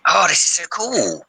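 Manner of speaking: slow squeal rising very high; stretched-out, high-pitched delight; giddy excitement. Real, not acted. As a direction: let the words climb in glee. Giddy over the new game features.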